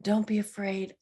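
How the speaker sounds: put-on gentle parent soothing a child; parental comforting. God comforting the fearful like a parent, tender reassurance. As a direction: coax them close, reassuring and tender. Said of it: "like a parent would".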